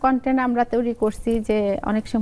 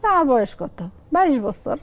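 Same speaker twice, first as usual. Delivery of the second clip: higher, falling answer in Lakshmipur dialect; 3 semitones higher than usual. Acted. Mother states her age in a skit, Lakshmipur dialect. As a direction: assert it in Lakshmipur regional speech. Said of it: "আমি আঞ্চলিক ভাষায় বলি".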